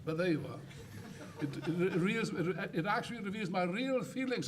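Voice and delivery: chuckling through the words, slowed; laughing. Real, not acted. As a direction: laugh it off while owning the insult. Laughing at his own insult.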